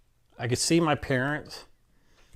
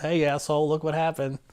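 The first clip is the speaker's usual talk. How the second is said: higher, cheeky jab at a friend; mock taunt; 5 semitones higher than usual. Taunting the doubting British doctor, cheeky. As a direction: rub it in playfully.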